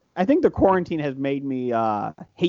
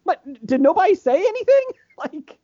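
incredulous high question; 12 semitones higher than usual. Retold or imitated. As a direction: ask it as if nobody could be this blind. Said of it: "And it's like".

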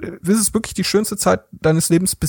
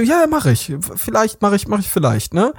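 fake polite promise; 4 semitones higher than usual. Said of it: "Ich so".

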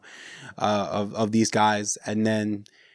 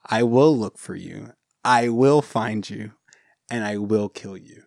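lightly acted movie father, measured threat; Liam Neeson; 3 semitones lower than usual. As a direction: quote the threat evenly, with deliberate pauses. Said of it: "this is what Liam Neeson says".

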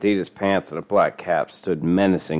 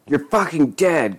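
mild angry yell; 8 semitones higher than usual. A narrator's reading. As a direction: yell a threat, held back. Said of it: "yelled out as he sunk into".

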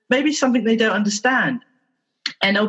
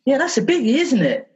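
gently higher, understanding tone; mild, caring agreement; sympathetic; 4 semitones higher than usual. Retold or imitated. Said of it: "But what I did was say".

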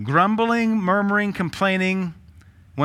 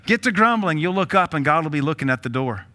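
emphatic warning. Acted. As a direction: hit it like a warning from the pulpit. Preacher warning the congregation.

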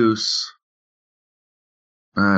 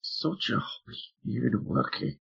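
put-on Irish accent; 3 semitones higher, 13 dB quieter than usual. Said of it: "I play her as an".

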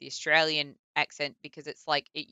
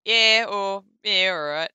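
casual Australian; 4 dB louder, slower than usual. Shown as a demonstration. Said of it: "you'll probably hear me say".

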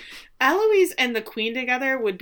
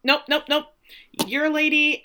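higher, louder hurried nopes; mock panicked refusal; 7 semitones higher, 4 dB louder than usual. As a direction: back away fast in mock alarm. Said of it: "and he's like".

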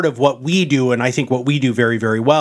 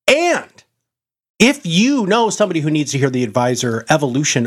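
booming motivational speech; 3 semitones higher than usual. Acted. Podcast outro sign-off.

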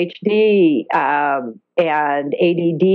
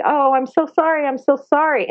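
higher-pitched, repeated soothing apology; lightly acted pity, pitched up; retold sympathy; 7 semitones higher than usual. Woman apologising to a scared dolphin, high sympathetic voice.

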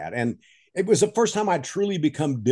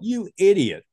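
higher, laughing self-rebuke; laughing self-mockery; 7 semitones higher, slower than usual. Real, not acted. Man looking back on dropping out, laughing at himself. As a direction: scold yourself through a laugh.

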